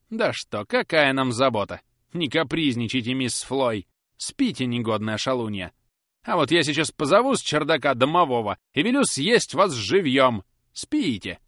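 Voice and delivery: loud, gruff threatening; mock-stern nanny. A narrator's reading. Susan threatening little Florence with a goblin, mock-stern. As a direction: scare the child to sleep. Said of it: "с особым выражением".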